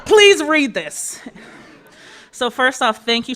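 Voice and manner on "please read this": slow, high laughing read. Real, not acted. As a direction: laugh through the words. Amused reading the note.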